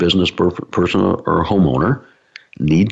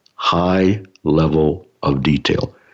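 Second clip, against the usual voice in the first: very slow, deliberate phrasing, drawn out word by word; 2 semitones lower than usual. Speaker repeats one of their favorite phrases, said slowly. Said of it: "Let me say it slowly".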